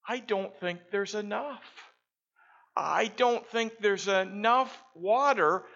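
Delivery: put-on little girl voice. The little girl worries to her dad about the water, high and pleading.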